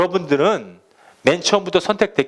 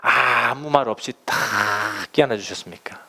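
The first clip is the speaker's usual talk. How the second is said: quiet and tender; 5 semitones lower, 3 dB quieter than usual. Acted. Contrast: silent embrace.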